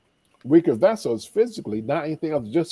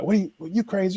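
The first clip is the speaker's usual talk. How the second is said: mock indignant outburst; 8 semitones higher, faster than usual. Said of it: "he started getting all mad".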